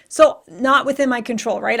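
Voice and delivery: normal talking voice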